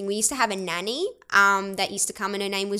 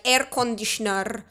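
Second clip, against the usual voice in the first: mimicked Arabic-accented English; imitated ethnic accent. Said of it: "And they'd be like".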